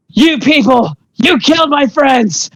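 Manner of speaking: hammed-up outrage at a killer of friends; mock yelling. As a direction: play yelling without the volume. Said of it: "she starts yelling and screaming".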